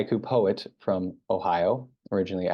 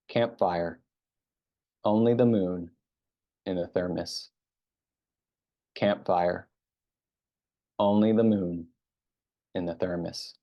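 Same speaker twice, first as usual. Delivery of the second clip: haiku reading. Real, not acted. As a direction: recite it line by line, letting the ending fall away. Reads own haiku aloud.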